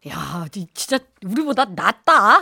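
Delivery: slow aside in a whisper. Real, not acted. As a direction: whisper it off mic. 방송 중 옆 사람에게 속삭임. (작게 속삭이는 혼잣말)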